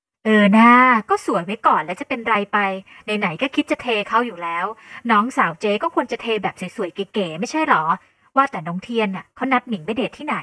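loud, lively big-sister voice; pushy older female colleague, coaxing. Acted. Older colleague urging Ming to look pretty, loudly coaxing. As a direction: coax her firmly, punching the words.

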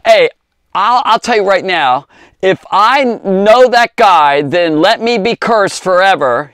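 Peter's vow. Retold or imitated. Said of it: "He was basically saying".

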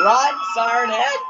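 high, urgent cry to the screen; urgent call. Real, not acted. Host urging Siren Head to flee, high excited call. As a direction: yell a warning at the video.

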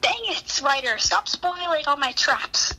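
high, whiny complaint; mock frustration. Real, not acted. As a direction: whine that the traps are ruined. Trap maker's traps spoiled.

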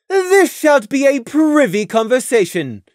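high, loud royal command; haughty archaic royalty; regal princess Luna. A narrator's reading. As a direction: speak as the stern moon princess. Luna voiced by narrator.

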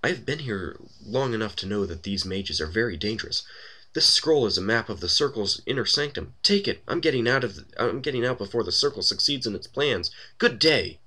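a hint of a haughty, huffy woman; lightly voiced haughty woman. A woman warns the party about dangerous mages, lightly voiced haughtiness.

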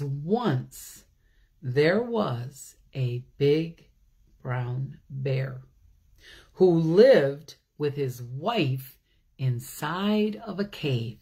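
lightly read-aloud story voice; storybook reading. A narrator's reading. A teacher reads the bear story to children, gentle read-aloud.

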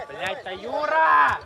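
drawn-out, frustrated sideline yell; exasperated shout. Real, not acted. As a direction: shout the name out slowly in exasperation. Coach yells at player mid-match.

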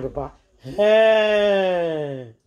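long, drawn-out "hey", swelling then fading; storyteller's mock wail to papa; acted cry. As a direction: call out and hold the hey.

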